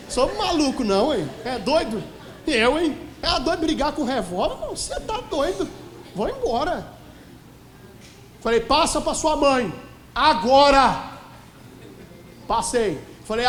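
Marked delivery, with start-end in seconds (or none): 0.1-6.9 loud, high-pitched comic protest; mock indignation. Preacher playing himself refusing to face a revolver, comically indignant. 8.6-11.1 commanding shout. Acted. Pastor ordering an armed man by phone, forceful command.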